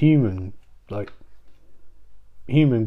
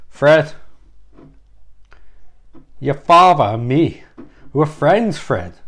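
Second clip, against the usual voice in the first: Chris Walken; slower than usual. Acted. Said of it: "that's the worst Chris Walken impression ever".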